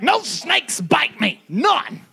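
slow, high, defiant; defiant claim. Pretend. Refusing grandpa's saying, slow and defiant. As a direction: declare it, daring the snakes. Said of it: "I'm here like".

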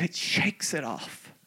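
low, soft, slow reply; hushed answer. Retold or imitated. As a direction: answer quietly after the big build-up. Mother's hushed answer in retold exchange.

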